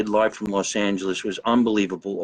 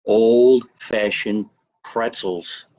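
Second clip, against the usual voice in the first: drawn out; 3 dB louder, much slower than usual. Real, not acted. Announcing snack.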